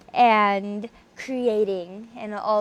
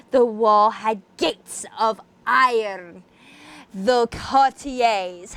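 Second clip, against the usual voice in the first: dramatic reading. A narrator's reading. Reading Poe aloud to viewers in isolation, dramatic narration. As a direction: read it like a gothic tale by candlelight. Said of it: "we shall commence with a dramatic reading".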